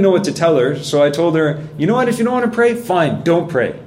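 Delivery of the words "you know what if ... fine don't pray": pitched high in frustration, last words slowed right down; frustrated retort. Retold or imitated. Mother retelling an argument, frustrated high-pitched retort. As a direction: snap back at a daughter who won't pray, then drag out fine, don't pray. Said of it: "we got into this argument".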